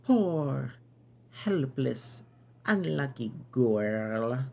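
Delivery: theatrical knight in a put-on accent; pitying Bucket Knight. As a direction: draw out the pity in a foreign-sounding knight voice.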